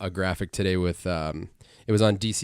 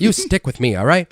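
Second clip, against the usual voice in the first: radio announcer voice; 6 semitones higher, 5 dB louder than usual. Shown as a demonstration. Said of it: "Like the radio announcer voice".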